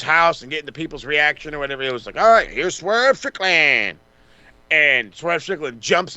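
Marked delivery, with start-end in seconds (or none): 2.2-4.0 a slow, drawn-out ring announcer call; slow announcer intro. Retold or imitated. Podcaster mocking a flat entrance intro, slow announcer call. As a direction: hand the crowd the name like an announcer, slowly.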